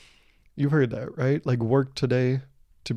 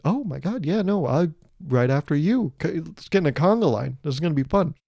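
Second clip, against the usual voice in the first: eager passenger; 3 semitones higher than usual. Retold or imitated. A trusting passenger following crew, mock-eager agreement. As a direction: go along gushingly, a little hammed-up.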